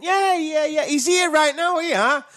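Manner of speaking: imitating the director who hands the phone to Shane; Shimmy voice. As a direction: mimic him blurting it out cheerfully. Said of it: "That's my little Shimmy impersonation".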